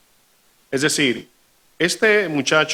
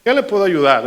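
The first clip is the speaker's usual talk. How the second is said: puffed-up confidence. Retold or imitated. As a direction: puff your chest out and talk down a little. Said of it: "se para ya como un poquito más de pechito".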